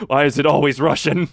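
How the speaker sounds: mock-frustrated outburst, loud. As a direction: raise your voice in mock complaint. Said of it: "I straight up was just like".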